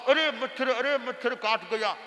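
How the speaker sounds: lightly mocking high arre machchhar; mimicking the guru. Disciple mildly mimics guru's mosquito fuss. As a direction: tease by copying his fuss. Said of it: "इतना ऐसे करने लग गए".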